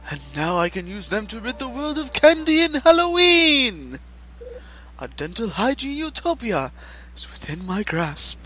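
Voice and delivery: grand menacing villain speech. Acted. Villain reveals his plan.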